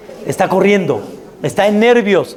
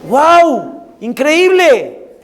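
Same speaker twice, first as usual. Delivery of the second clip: higher and louder, drawn-out exclamation of delight; mock delighted wow; 9 semitones higher, 4 dB louder, much slower than usual. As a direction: gush like someone thrilled with their trip. Mock traveller delighted by trip.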